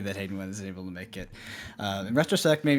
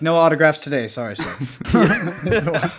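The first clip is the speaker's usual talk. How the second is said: louder, slow, laughing mock-snooty brush-off; mock celebrity; 4 semitones higher, 7 dB louder, slower than usual. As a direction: play the aloof star.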